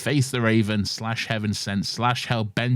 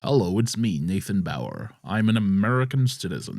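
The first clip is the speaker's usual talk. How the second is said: fake Mandarin voice; 3 semitones lower than usual. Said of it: "I am doing it".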